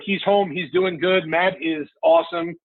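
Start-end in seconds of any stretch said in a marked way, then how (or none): 1.3-2.5 proud excited. Real, not acted. Dad on a talk show praising his son, excited high lift. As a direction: voice jumps up high with pride.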